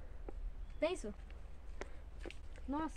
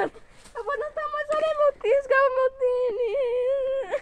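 slow sobbing whine; crying; 3 semitones higher, 6 dB quieter, slower than usual. Real, not acted. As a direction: wail it through tears. Crying while sinking in mud.

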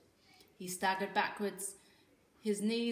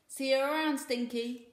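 sniggering; 6 semitones higher, 7 dB louder than usual. A narrator's reading. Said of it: "he sniggered".

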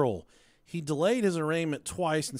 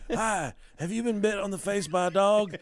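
lawyer commercial voice; 3 semitones higher than usual. Pretend. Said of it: "gotta have the voice where they always sound like they're out of breath".

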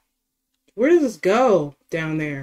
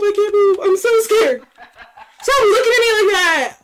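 scared laughter, higher pitch; nervous laughing; 9 semitones higher than usual. Real, not acted. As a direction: laugh through the panic. Frozen in front of monster.

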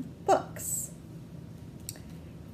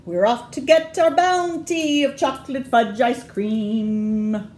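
little pirates; 3 semitones higher, 6 dB louder than usual. Acted. Pirate kids heading for treasure.

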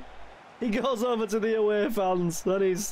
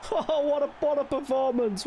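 excited; 8 semitones higher than usual. Real, not acted. Praising team after goal.

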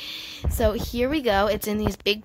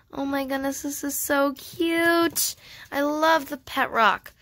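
higher, stretched-out gush; cooing over cuteness; 4 semitones higher than usual. Real, not acted. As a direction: melt over something adorable. Cooing over the pet rock.

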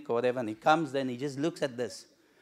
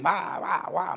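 mock wah wah; 4 semitones higher, slower than usual. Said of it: "standing on the mountain going".

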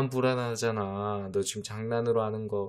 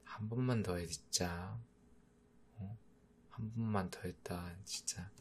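soft teasing threat; 2 semitones lower, 14 dB quieter than usual. Acted.

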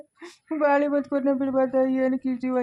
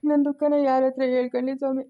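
crying. Acted. Grieving old man, lost son.

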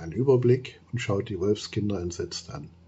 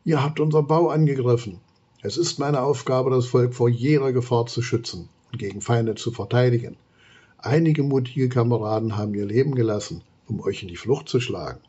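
annoyed. Acted. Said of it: "ergänzt Theas Worte verärgert".

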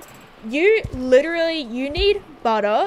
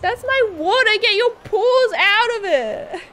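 higher, louder telling-off of a pet; cat owner scolds her kitten, higher and louder; scolding the cat; 8 semitones higher, 4 dB louder, slower than usual. Real, not acted. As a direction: shoo the cat off the water glass.

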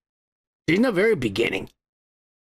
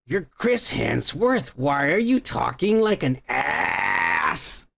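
exasperated; 5 semitones lower, slower than usual. Retold or imitated. Retorts to actor in mock disbelief.

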